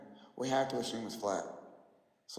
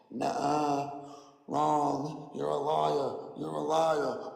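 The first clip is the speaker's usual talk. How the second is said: mocking globers; 3 dB louder, much slower than usual. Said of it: "this is how it goes".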